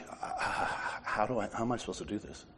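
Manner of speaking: soft, rushed self-questioning; a quick, half-voiced fret to oneself; retold fretting. Man worrying all morning how to do this, quiet rushed fretting.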